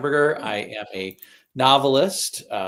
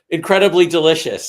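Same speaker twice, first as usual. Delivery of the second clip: loud, higher burst of delight; retold amazement; 8 semitones higher, 12 dB louder than usual. Novelist relives first bite of airport sandwich, amazed. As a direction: punch it out, louder and higher, savoring the memory.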